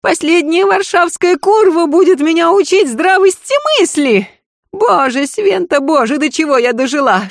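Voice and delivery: shrieking lady. Acted. Lady shrieks while dragging the maid by the hair. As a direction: scream in outrage at the maid.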